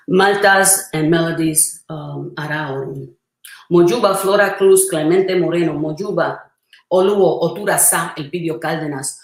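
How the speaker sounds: rhythmic invocation of names; prayer recital. Real, not acted. Priestess honoring ancestors in the Mojuba, measured prayerful recital. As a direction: call each ancestor by name, steady and reverent.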